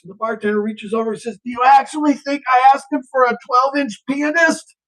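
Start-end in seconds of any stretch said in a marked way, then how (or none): 1.4-4.7 high-pitched exasperated question; incredulous retort. Acted. Bartender delivering punchline to guy, high incredulous retort. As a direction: throw it back high, in disbelief.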